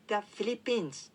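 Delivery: The Philippines spoken slowly with English sounds; slow English demo. Shown as a demonstration. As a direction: carefully pronounce The Philippines. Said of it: "フィリピンは". (ゆっくり英語の発音で)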